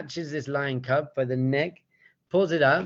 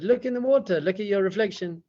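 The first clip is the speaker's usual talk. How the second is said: urging lion; 6 semitones higher than usual. Acted. Lion urging the cub at the water.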